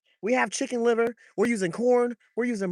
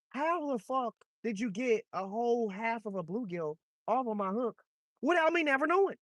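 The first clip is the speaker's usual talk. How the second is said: disbelief; 4 dB louder than usual. Real, not acted. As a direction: demand to know how the fish got the bait. Baffled at losing his bait.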